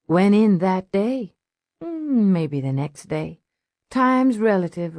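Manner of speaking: lazy and dazed, a twitchy street junkie; lightly voiced junkie, dreamy; spaced-out junkie. Junkie character voice.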